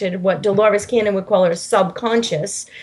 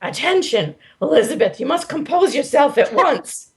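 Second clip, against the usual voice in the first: lightly voiced commanding spirit, high; a hint of an authoritative guide ordering calm; mild commanding voice telling Elizabeth to compose herself; stern higher self; 3 semitones higher than usual. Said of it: "it says".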